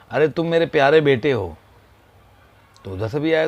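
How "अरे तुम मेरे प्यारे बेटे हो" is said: louder, calling out fondly; loving call. Retold or imitated. Father calling his son again, fond call. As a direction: call it across the valley with love. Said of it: "उसने दोबारा आवाज़ दिया".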